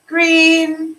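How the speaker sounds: excited exclamation. Real, not acted. Delighted at a viewer's color.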